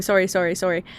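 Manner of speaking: "sorry" with a rounded "oh", as SOH-ree; quick repeated "sorry", imitating the Canadian vowel. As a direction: say "sorry" with an OR sound. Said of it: "I kept saying".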